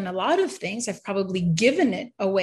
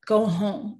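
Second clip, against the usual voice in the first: firm but kind; slower than usual. Retold or imitated. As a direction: say it like a gentle but firm father. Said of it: "then he repeated it".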